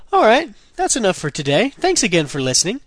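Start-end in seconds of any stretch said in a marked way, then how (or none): none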